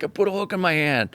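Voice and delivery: high, lightly mocking voice of himself; mock self quote. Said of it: "I'm like".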